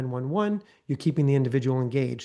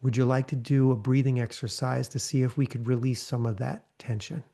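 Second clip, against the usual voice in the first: gently. Shown as a demonstration. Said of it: "you could just gently say".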